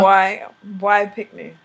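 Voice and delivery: put-on "Boy, boy picnic" with boy as "bwai", slow; patois boy picnic. Shown as a demonstration. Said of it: "Boy is boy".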